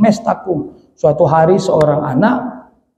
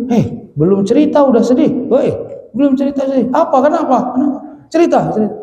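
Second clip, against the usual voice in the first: higher-pitched acted exasperation at a friend; pestering a friend for an explanation, voice raised in pitch; exasperated questioning; 6 semitones higher than usual. Friends press their crying friend before his story, exasperated questioning.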